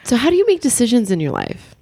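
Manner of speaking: interviewer voice with vocal fry; creaky fry interviewer question. Pretend. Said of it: "should I do some vocal fry".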